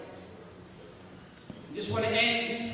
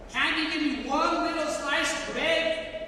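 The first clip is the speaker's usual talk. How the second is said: desperate plea; 7 semitones higher than usual. Retold or imitated. Starving prisoner begs God again, more desperately. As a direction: pitch lifted higher, pressing on the word one. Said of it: "I was talking to God within my heart".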